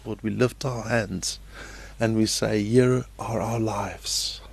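prayer. Real, not acted. Leads a prayer.

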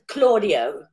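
"Claudio" as CLAW-dee-oh with falling end; matter-of-fact CLAW-dee-oh for "Claudio"; own mispronunciation. Shown as a demonstration. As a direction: use a "claw" vowel in "Claudio". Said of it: "I pronounce it".

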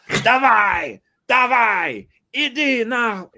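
high, loud Russian yelling; yelling at the donkey. Retold or imitated. A politician whipping his donkey, shouting high in Russian.

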